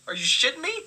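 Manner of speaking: ordinary delivery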